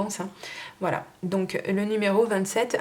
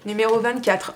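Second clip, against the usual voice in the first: annonce forte du lot; 3 semitones higher, 5 dB louder than usual. Real, not acted.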